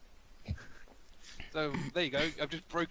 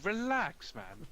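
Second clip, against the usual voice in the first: telling someone to chill; drawn-out relax; 9 semitones higher, much slower than usual. Acted. Player telling a slightly panicky companion to relax, laid-back reassurance.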